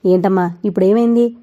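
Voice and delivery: a tired son asking with mild irritation; irritated question. Acted. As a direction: let a little annoyance slip out. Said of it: "విసుక్కుంటూ అడిగారు". (విసుగ్గా అడగడం)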